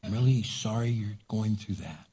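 hushed, gentle apology; soft whisper back. Shown as a demonstration. Preacher showing a whispered reply to an angry person, hushed. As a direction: whisper it to calm them. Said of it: "whisper back".

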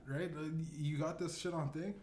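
ordinary delivery

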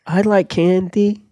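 lightly put-on girl star; a singer. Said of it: "Hillary Duff".

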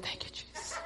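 breathless laughing thanks; laughing relieved thanks; laughing relief. Retold or imitated. Relief after bad news averted.

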